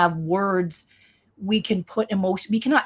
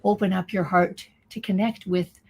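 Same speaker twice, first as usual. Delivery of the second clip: channeling voice. Acted. Channels the beings' message.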